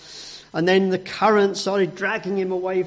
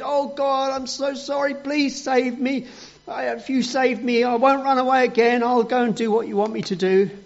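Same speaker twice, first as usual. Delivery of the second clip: higher, pleading prayer; drowning Jonah begging to be saved; desperate plea; 8 semitones higher than usual. Acted. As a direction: beg God for rescue.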